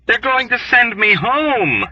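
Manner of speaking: high, beaming announcement of good news; jubilant. A narrator's reading. Yossarian back in the ward, jubilant. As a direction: crow it out, overjoyed. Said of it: "Yossarian announced jubilantly".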